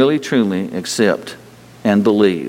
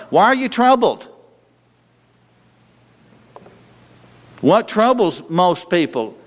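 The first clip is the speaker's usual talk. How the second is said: high rhetorical question; 8 semitones higher than usual. Real, not acted. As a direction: voice jumps much higher.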